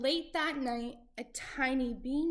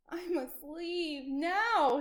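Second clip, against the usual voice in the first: nervous Jack; 5 semitones higher, slower than usual. Acted. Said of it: "he thought".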